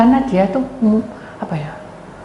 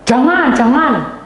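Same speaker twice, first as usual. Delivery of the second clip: urgent plea; 6 semitones higher, 5 dB louder, much slower than usual. Retold or imitated. Agitated person begs speaker not to leave.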